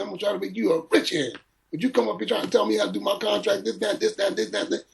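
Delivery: high-pitched, speeding-up Don voice; Don King scolding. Retold or imitated. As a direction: lecture him in a high, brisk mock Don. Don lecturing him, retold.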